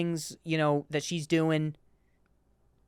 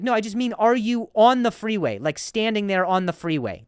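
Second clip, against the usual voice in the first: loud exasperated question; 3 semitones higher, 4 dB louder than usual. Retold or imitated. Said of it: "And I was like".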